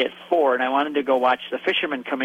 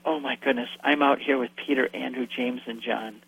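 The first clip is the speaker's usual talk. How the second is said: awed hush; 2 semitones lower, 4 dB quieter than usual. Real, not acted. Awed inner thought.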